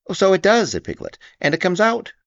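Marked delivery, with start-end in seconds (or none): 0.1-0.7 high squeaky delighted; small pig cheering up; Piglet. A narrator's reading. Piglet watching the balloon go in, high and glad. 1.4-2.1 high squeaky delighted; small pig cheering up; Piglet. A narrator's reading. Piglet watching the balloon go in, high and glad.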